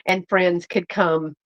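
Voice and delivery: talking through hiccups; hiccuping between words. Real, not acted. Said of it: "Excuse me, I got the hiccups".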